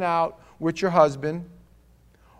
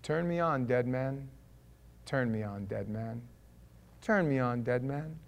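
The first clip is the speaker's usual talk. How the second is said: eerie hidden message; 4 semitones lower, 4 dB quieter than usual. Retold or imitated. Voicing the backwards hidden message.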